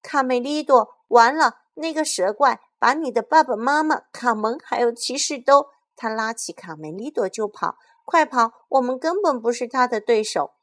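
loud, high panicked yelling; frantic terrified warning; panicked shout. Acted. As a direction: scream the news while running. Panicked warning, fleeing the monster.

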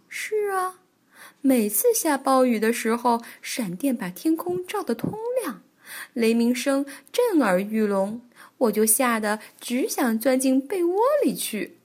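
lightly voiced storytelling granny; a hint of an old bear granny. Granny Bear confides fear of storms, lightly voiced granny.

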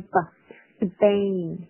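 "Spain" pronounced like "Sbain"; voiced P in Spain. Shown as a demonstration. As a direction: say "Spain" slowly with the P softened to a B. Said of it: "作为一个浊化的处理". (Spain里的p浊化读成b)

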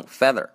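"feather" with a short front vowel; wrong vowel. Shown as a demonstration. Teacher shows what neither accent says, "feather" with short vowel. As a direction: say "feather" instead of father. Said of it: "读成".

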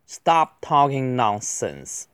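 slow, clearly articulated words; deliberate teacher's pace; slow model reading. Shown as a demonstration. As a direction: read it out carefully for learners. Slow model reading, then faster repeat.

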